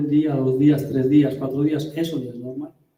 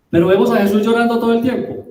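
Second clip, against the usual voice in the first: emphatic mock claim; 5 semitones higher, 5 dB louder, faster than usual. Rhetorical exaggeration, mock claim.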